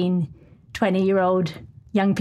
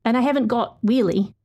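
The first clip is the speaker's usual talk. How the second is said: measured, earnest feature read; story narration. Acted. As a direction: read it like a radio documentary. Reads her feature story aloud.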